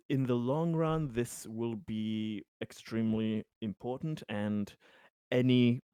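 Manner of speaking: lightly voiced hesitant reassurance, halting between phrases; Conrad, earnest and careful. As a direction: reassure carefully, searching for each word.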